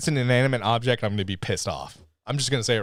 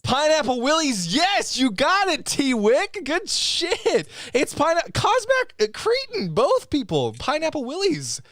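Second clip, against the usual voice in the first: higher, excited praise for the winners; excited announcing; 14 semitones higher, slower than usual. Real, not acted. Host cheering viewers who guessed his hat, excited. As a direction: cheer out the names like a game show host.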